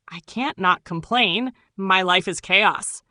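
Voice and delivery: slow, weary grumble of a frustrated complainer; fed-up complaining. Pretend. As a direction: sigh it out like someone overwhelmed by a bad day. Imagined complaint when things go wrong.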